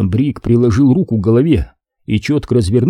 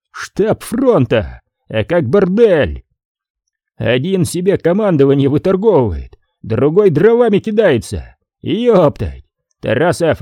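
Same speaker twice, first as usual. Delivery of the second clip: angry general; 5 semitones higher than usual. Acted. General barks at officers.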